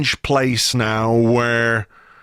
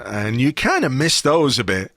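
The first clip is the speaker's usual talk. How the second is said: losing voice. Real, not acted. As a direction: voice cracking mid-sentence. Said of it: "sorry, my voice broke in the, in the middle of that sentence".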